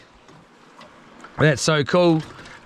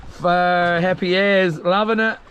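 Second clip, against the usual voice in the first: usual speaking voice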